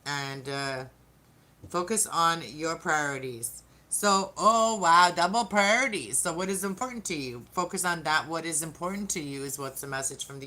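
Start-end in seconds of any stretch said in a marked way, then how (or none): 3.9-6.2 louder, higher burst of delight; surprised. Real, not acted. Tarot reader seeing a repeated card, pleased surprise. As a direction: caught off guard by the second card.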